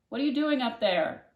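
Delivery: loud, high call upstairs; mother shouting. A narrator's reading. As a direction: shout up to the daughter. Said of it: "her mother shouted".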